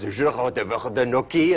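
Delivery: fake French. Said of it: "Glenna goes".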